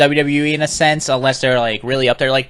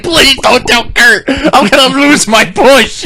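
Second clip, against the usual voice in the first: high, slow hammed-up plea; mock begging; 9 semitones higher, 4 dB louder, slower than usual. Wrestler kneeling to plead with her, mock begging. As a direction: drag out a whiny, pleading wail. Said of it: "begging her not to tell".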